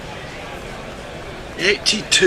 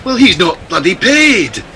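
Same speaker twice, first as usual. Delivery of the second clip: put-on Scottish accent. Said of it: "Billy Connolly become a gorilla".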